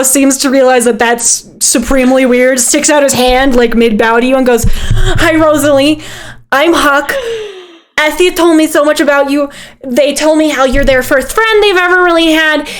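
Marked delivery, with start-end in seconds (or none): 4.7-12.7 slightly raised, eager ramble; eager awkward character. Acted. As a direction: babble a friendly introduction nervously. Game master voices rambling Huck.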